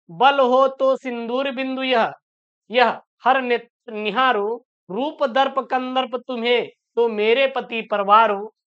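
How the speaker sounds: slow, measured verse reading with drawn-out words; poem recitation. Acted. Teacher reading a Hindi poem to students, slow recitation. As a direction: recite line by line, pausing between phrases. Rereads the verse before explaining.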